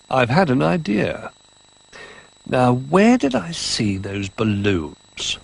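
lightly voiced old bear, slow; musing slowly in a hint of the old bear; Old Bear with an idea.

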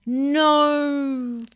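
put-on little girl screaming no. A narrator's reading. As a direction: shriek it in panic. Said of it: "screamed Stella Rosa".

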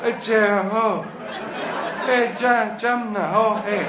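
"Jim" broken up, with "eh" arriving late; drunken, drawn-out "Jimmy lad". Shown as a demonstration. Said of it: "the more drunk they get, the longer it takes".

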